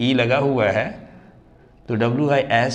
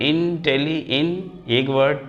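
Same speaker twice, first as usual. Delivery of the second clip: इंटेली- said higher, broken off with a rise; syllable demo; 3 semitones higher, slower than usual. Shown as a demonstration. Teacher splits the word again for students, deliberately. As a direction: stretch out इंटेली- to count its beats. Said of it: "इसका pronunciation करेंगे".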